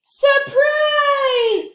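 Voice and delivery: high, loud jump-out surprise; loud surprise shout. Acted. The kids jump out at the monsters, loud high surprise. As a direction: burst out with surprise.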